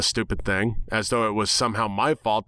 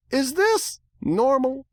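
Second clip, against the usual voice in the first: high, slow, puzzled little filly; young filly voice; slower than usual. A narrator's reading. Apple Bloom puzzled at the crash scene, small filly voice. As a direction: ask it slowly like a confused child.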